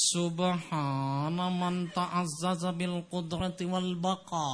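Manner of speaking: mock Thai-accented Arabic, very slow; accented Arabic recitation. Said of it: "สำเนียงมันติดไป".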